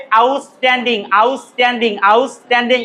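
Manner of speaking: আউটস্ট্যান্ডিং as "aus-tanding", hard unaspirated t; correct pronunciation. Shown as a demonstration. Teacher repeating the word for students, correct pronunciation. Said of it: "তাহলে উচ্চারণটা কেমন হবে?".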